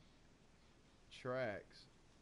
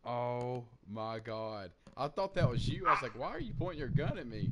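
excited; 9 dB louder than usual. Real, not acted. Ambushed, retelling the confusion.

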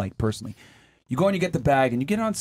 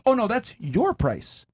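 slow, higher mock shop clerk; deadpan salesperson; 5 semitones higher, slower than usual. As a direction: calmly tell them it's their price. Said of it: "looks you dead in the eye and says".

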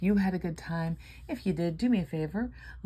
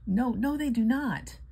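emphatic; 7 semitones higher, 5 dB louder, slower than usual. Real, not acted. Emphatic denial.

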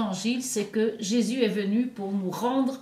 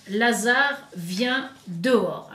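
slightly raised voice, drawn out at the end; mild loud call; 4 dB louder, slower than usual. Retold or imitated. Priest quoting Jesus calling Lazarus out, mildly raised voice. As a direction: quote a cry with measured force, slowing down. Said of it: "Jésus cria d'une voix forte".

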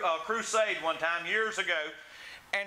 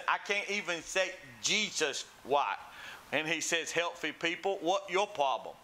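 lightly imitated speech of a man with cerebral palsy; a hint of slurred, effortful preacher speech; David Ring. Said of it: "the one with cerebral palsy".

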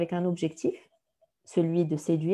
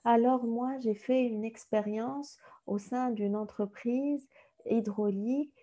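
slow, softer, same droning tone; monotone candidate; 2 semitones higher, 5 dB quieter, slower than usual. Shown as a demonstration. Coach mimicking a dull candidate, slow and droning. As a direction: drone through it like nothing matters. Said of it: "si vous parlez avec la même voix tout le temps".

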